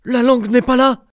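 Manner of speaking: high, loud cry of discovery; exclaiming. A narrator's reading. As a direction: shout it out in triumph. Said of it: "s'écrie".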